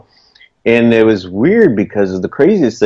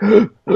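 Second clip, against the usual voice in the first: gasping for breath; 11 semitones higher than usual. Retold or imitated. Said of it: "I can't breathe".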